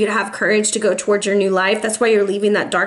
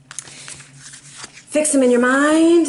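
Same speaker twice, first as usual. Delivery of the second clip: slow, deliberate; 3 semitones higher, much slower than usual. Real, not acted. Slow instruction before draw.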